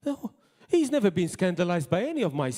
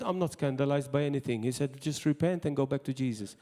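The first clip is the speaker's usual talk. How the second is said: gentle pastor's words; 4 semitones lower, 4 dB quieter than usual. Retold or imitated.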